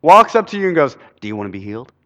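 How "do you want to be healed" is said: mock crazy stranger. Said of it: "looks a little crazy walks up".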